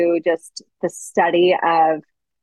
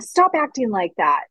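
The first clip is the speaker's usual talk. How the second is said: high, rising string of stops; mock exasperated parent repeating stop; scolding parent; 7 semitones higher than usual. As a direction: imitate a parent nagging a child. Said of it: "it's like".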